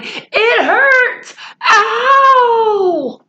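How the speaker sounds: high whiny yelp of pain; crying out in pain. Acted. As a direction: wail like a hurt boy. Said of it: "Patrick kept yelling".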